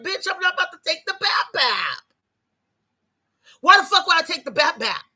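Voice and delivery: shouting back at mama in the retelling; yelling I'm not taking it; retold yell at mama. Retold heated argument with mama.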